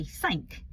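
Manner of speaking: "sank" for something, in one syllable; Essex pronunciation. Shown as a demonstration. Showing how she said something at school, Essex "sank". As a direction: squash "something" down to a single "sank". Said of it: "And something, I'd say".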